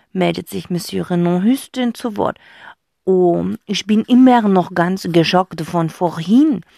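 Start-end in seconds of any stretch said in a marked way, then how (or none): 3.0-6.6 moaning fox voice. Acted. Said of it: "stöhnt er".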